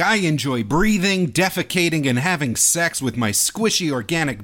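mock human voice. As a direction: say it like a robot pretending to be human. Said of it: "human being Jake".

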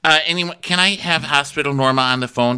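mock exasperated phone caller; impatient boss. Sandy demanding Hospital Norma on the phone, high mock impatience. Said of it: "And she's like".

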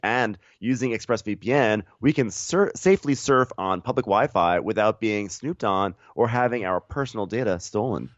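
scripted co-host sponsor read; podcast ad read. Real, not acted. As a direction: deliver the ad copy evenly and emphatically.

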